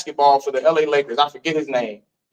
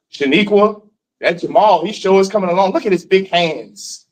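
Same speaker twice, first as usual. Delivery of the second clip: imitating slave master. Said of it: "he would say".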